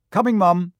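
loud shouted reply; calling back. A narrator's reading. Twin answers his mum loudly from the train. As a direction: shout it back across the platform.

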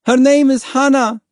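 high, loud call; struggling to be heard. A narrator's reading. Mother handing up her baby, shouting over the roar. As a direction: shout it over engine and waves. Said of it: "struggling to be heard above the roar".

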